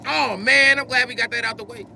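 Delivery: high-pitched cartoon voice; Cyborg. Man relieved to be done, still in high cartoon caricature. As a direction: keep up the squeaky cartoon caricature. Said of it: "of Cyborg from motherfucking Teen Titans".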